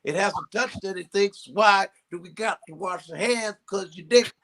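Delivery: lightly voiced Cosby musing; Cosby impression. Comic telling a coworker his odd joke in a mild Cosby voice. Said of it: "He goes".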